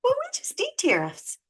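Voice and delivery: high, loud sing-song mockery of a Trump supporter; mocking Trump supporters. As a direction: parody them as smug and clueless. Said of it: "Trumpers are still going".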